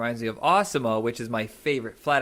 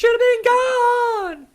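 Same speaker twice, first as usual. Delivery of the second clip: mock yell; 9 dB louder, slower than usual. Laughing banter quoting a line.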